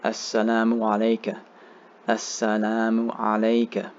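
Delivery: measured, even-toned recitation with long vowels; Arabic prayer recitation. Shown as a demonstration. Teacher modelling the tashahhud for learners, measured recitation. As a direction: recite phrase by phrase for learners to follow.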